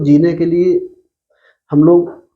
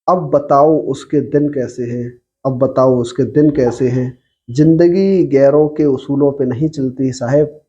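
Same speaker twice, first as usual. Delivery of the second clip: ghazal recitation. Acted. Poet reciting a ghazal to online listeners, measured recitation. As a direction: recite each couplet deliberately, line by line.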